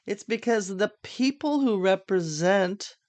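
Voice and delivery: represent leaned on with extra weight; stress on represent. Shown as a demonstration. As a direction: lean on the word represent. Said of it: "emphasis on represent".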